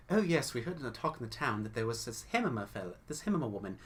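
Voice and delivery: fast, eager chatter that finishes each other's sentences; quick chattering twins. Acted. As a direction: rattle it off like gossipy twins. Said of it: "quick together sentences, finishing each other's sentences".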